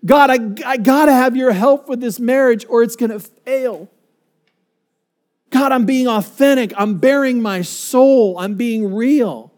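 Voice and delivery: earnest acted prayer, pitch lifting as it builds; bare your soul to God, halting at first, then insistent; vulnerable pleading. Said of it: "been so vulnerable that you say".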